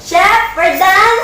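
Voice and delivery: calling out. Acted. Calling out to chef.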